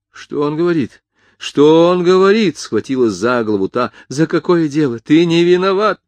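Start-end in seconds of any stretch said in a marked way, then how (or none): 0.1-2.6 high, wailing repeated question; rising distraught cry, louder the second time; horrified disbelief. A narrator's reading. Mother clutching her head at son's admission, horrified. 4.1-6.0 high, loud denial; distraught protest. A narrator's reading. Mother insisting her son is innocent, distraught. Mother denies son's guilt.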